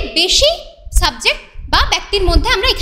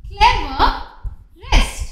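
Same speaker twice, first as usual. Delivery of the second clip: 1 drawn-out example word; much slower than usual. Shown as a demonstration. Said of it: "EST যোগ করে অর্থাৎ".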